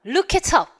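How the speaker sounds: "look it up" run together as loo-ki-tup; linked pronunciation. Shown as a demonstration. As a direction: link every word in "look it up". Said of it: "이라고 발음을 한다".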